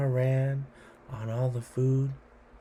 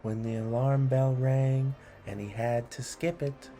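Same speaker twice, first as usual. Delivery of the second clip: put-on rhythmic read-aloud for children; poem reading. A narrator's reading. Host reading a pirate poem to kids, rhythmic and lilting.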